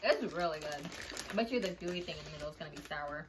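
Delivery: talking while sucking candy; candy in mouth. Real, not acted. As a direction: cheek bulging with candy. Seen 0: Woman's cheek bulges, lips pursed while talking; candy context nearby.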